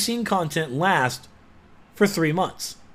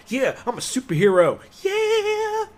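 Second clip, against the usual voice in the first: high, giddy fanboy squeal; a high, excited mock fanboy; gleeful gamer; slower than usual. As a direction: gush like a kid playing. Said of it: "just go".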